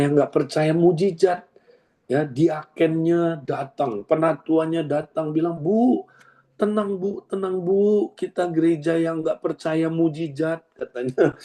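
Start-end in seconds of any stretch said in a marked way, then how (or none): 5.6-10.6 high, hurried calming church elder voice; fussy elder hushing her down; mock soothing deacons. Deacons hushing a healed woman, mock soothing.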